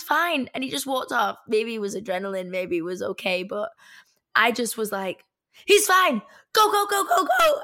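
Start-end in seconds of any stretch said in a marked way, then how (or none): 5.7-7.6 high, raised-voice burst of mock panic; urgent urging. Passenger urging driver to flee, frantic urging. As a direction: fire it off as an urgent getaway order.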